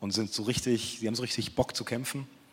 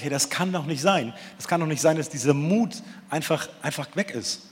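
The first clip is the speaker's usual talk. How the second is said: higher and louder, David's outraged disbelief; indignant outcry; 4 semitones higher, 4 dB louder than usual. Acted. David appalled that the soldiers' courage is gone, raised indignant voice. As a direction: let it burst out in disbelief.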